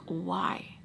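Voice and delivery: understated upset, words stretched out; retold upset. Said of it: "I get so upset".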